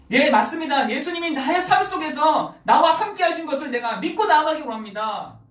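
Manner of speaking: earnest sermon appeal; fervent preaching. Real, not acted. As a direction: preach it with rising fervour, easing at the end. Preaches with raised force.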